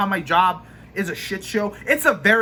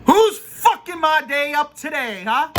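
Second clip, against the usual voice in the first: mock angry challenge; 7 semitones higher, 3 dB louder than usual. Venting, mock challenge to coworker.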